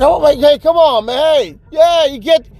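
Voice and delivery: high-pitched imitation of a yelling manager; hammed-up, frantic calling; mock yelling. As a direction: holler after him in a high mock voice. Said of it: "he just yelling and screaming like".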